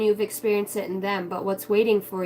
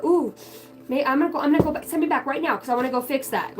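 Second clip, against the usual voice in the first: higher, fast, eager mock plea; 4 semitones higher, faster than usual. Soul begging to be sent back, fast eager plea. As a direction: rush it out, dying to go back.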